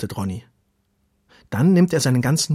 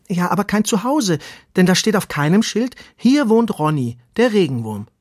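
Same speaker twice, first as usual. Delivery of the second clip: higher, louder, insistent worm voice; eager little earthworm, complaining; 8 semitones higher, 5 dB louder than usual. Acted. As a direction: protest earnestly as the small worm.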